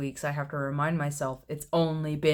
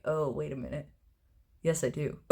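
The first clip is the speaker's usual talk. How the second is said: quiet realization; 5 dB quieter than usual. Retold or imitated. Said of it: "And then I was like".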